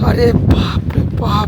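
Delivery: slow words through numb lips; cold-stiff mouth, slow; frozen lips. Real, not acted. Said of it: "ঠোঁট জমে গেছে ভাই".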